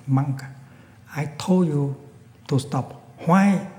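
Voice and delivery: angry bandit demanding why. Acted. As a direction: demand it with rising fury. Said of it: "with an angry tone".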